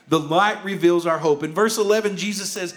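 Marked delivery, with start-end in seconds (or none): 0.1-1.4 fuller, proclaiming; firm proclamation; proclaimed. Shown as a demonstration. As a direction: declare it out to the room. Key line repeated, now proclaimed.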